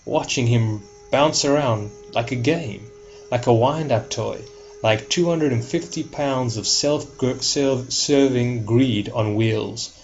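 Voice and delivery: dramatic monologue in a lightly attempted film-star accent; attempted Pacino accent. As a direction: have a rough go at the screen devil's accent. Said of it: "let me leave the accent behind".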